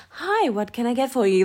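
lightly British service greeting; a hint of polite British server; customer service voice. Server greeting a customer, lightly British service voice. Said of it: "customer service voice is a bit British".

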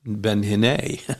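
ben hinei said slowly, careful Hebrew; Hebrew word. Shown as a demonstration. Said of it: "not Benny Hinn".

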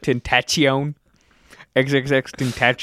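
imitating a mispronunciation in a southern accent; a southern-tinged version of a rapper's name, with a "ch" or "sh" in the middle; mock southern accent. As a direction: mimic your friend's botched name with a southern twang. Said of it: "I don't even have a southern accent".

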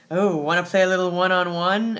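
breathy, teasing invitation; sultry voice. Retold or imitated. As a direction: purr it out flirtatiously. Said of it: "her best sultry voice".

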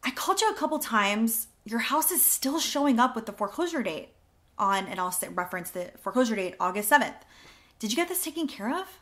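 upbeat agent calling a homeowner; script demo call. Shown as a demonstration. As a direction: demo the script as a bright phone opener. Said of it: "Let's go to the next one".

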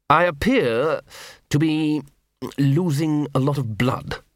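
slow, unruffled aristocrat; dry calm despite wound; calm patrician voice. A narrator's reading. Wounded Vetinari speaks.

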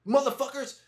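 sergeant major. Retold or imitated. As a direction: ham up the old Southern sergeant. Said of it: "he was like".

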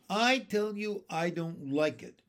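grumbled insistence, only mildly muttered; uneasy grumble. Acted. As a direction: grumble it, falling off at the end. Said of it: "muttered the captain".

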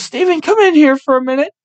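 high-pitched imitation of a woman calling; clinic lady calling. Clinic lady summons driver to the bathroom, calling out. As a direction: call out high, summoning someone.

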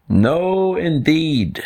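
high-pitched mock shout of refusal. Two animals reject monkey's plan, high mock shout. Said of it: "shouted the other two in chorus".

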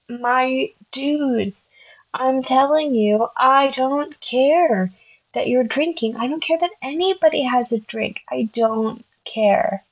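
exasperated insistence. Retold or imitated. To her date about drinks, exasperated and emphatic. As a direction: spell it out to a pushy date.

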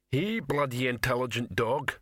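another troll, dimly admiring. Acted. Troll boasts about the dog, lightly voiced troll.

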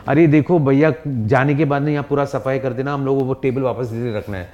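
fast, bossy wife voice. Pretend. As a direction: rattle it off like a busy wife. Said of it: "she'll be saying".

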